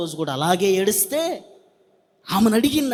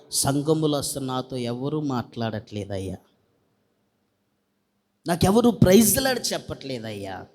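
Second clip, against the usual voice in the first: plaintive woman; 8 semitones lower, 3 dB quieter than usual. Retold or imitated. Weeping woman's complaint to pastor.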